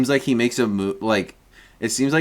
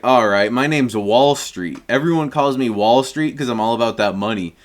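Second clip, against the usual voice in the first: put-on deep old guy voice. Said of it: "trying to just do a deep old guy voice".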